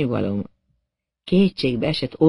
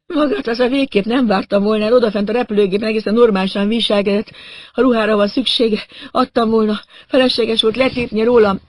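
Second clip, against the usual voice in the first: high-pitched wounded reproach; aggrieved victim; 6 semitones higher than usual. A narrator's reading. Stabbed man reproaching his supposed attacker, aggrieved. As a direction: complain in a raised, pained voice.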